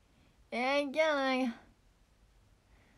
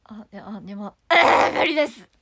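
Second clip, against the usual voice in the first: failed low voice attempt; 3 semitones lower, 12 dB louder than usual. Shown as a demonstration. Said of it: "声低い声出ない".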